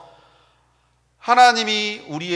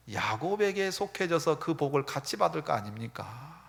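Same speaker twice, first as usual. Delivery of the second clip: normal talking voice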